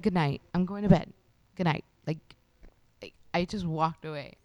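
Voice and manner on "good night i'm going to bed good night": mildly angry, loud dismissal; retold pissed off. Storyteller replays walking away from the neighbor, loudly annoyed. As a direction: replay a curt, annoyed bedtime brush-off. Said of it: "was pissing me the fuck off".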